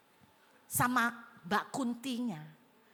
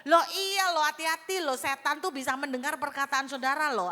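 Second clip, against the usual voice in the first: emphatic warning; 3 semitones higher, 6 dB louder than usual. Real, not acted. Preacher warns the congregation loudly.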